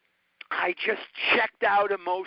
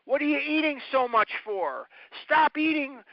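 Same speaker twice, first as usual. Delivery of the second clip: higher, scolding mock yell at a child; imitating scolding adults; 6 semitones higher than usual. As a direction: play the harsh doctor berating a fat little boy. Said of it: "What they said to me was".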